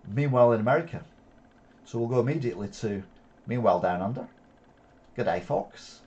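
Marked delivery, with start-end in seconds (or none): 5.2-6.0 put-on a light stab at an Australian accent, greeting the viewers; mock Australian accent. Vlogger greets his viewers in a light mock Australian accent. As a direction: say "Good day" as an Aussie "G'day". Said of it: "It's my Australian accent".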